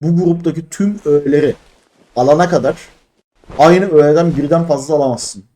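öbek öbek, aralarda durarak oku; tane tane okuma. Real, not acted. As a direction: anlamaya çalışır gibi bölerek, sonunu bastırarak oku. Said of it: "Bir daha okuyacağım". (duraklaya duraklaya, tane tane)

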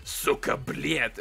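drawn-out mock Russian curse; Russian accent. Friend teaching him to swear, drawn-out Russian accent. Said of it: "it sounds Russian".

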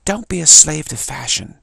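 loud, slow try at a Brooklyn accent; attempted Brooklyn accent. Shown as a demonstration. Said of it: "It might have been a Brooklyn accent".

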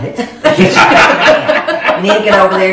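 slow, drawn-out plea through laughter; urgent plea. Retold or imitated. Daughter sending Mom to check the oven, urgent. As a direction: stretch the words out, half laughing.

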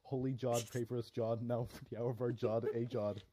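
low, chanted parody Hail Mary; mock prayer. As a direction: intone it like a solemn rote prayer.

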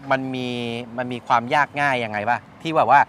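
ordinary talk

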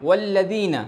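والذین starting with a clear w, lips rounded; rounded waw. Shown as a demonstration. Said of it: "اب آپ کو گول کرنا ہے". (گول ہونٹوں سے والذین)

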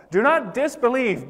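shouted command. Acted. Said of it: "he had to shout those words".

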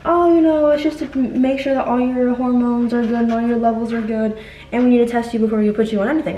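a lightly voiced cheerful nurse; breezy nurse voice. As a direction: play the nurse who casually explains the exam. Nurse quoted explaining the exam.

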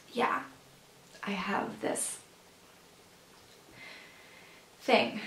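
very soft, with long pauses; subdued admission. Acted. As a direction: let the admission out quietly, haltingly. Subdued admission after confessing the crying.

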